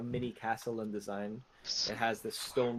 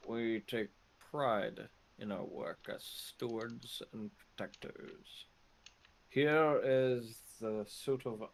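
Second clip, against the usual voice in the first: lightly voiced proud shopkeeper; proud merchant, lightly voiced. GM plays the merchant.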